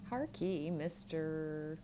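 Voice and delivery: an abrupt, curt call for attention. Acted. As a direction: cut in abruptly, then drag out Mister. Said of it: "said abruptly".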